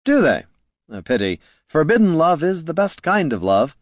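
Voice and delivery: light bard voice, lifting high in places; a hint of a dramatic romantic bard; lightly voiced bard.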